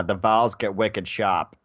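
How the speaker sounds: drawn-out Boston vowels, r dropped; slow, playful Boston imitation; Boston accent. Joining the co-host's Boston bit, Boston accent.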